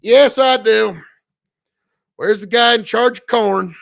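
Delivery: march in and demand to see the corn boss; mock confrontation. Streamer imagining storming Wikipedia, mock demand. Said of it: "show up at the main desk like".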